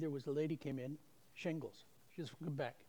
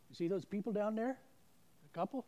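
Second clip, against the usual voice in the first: higher and louder, pointing someone out; voice of the Holy Spirit; 7 semitones higher, 7 dB louder than usual. Retold or imitated. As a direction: direct the listener's eyes down the aisle. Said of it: "the Holy Spirit goes".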